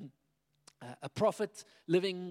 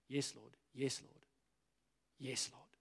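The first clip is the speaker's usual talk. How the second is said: soft surrender; 3 semitones lower, 8 dB quieter than usual. Shown as a demonstration. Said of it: "surrender shown".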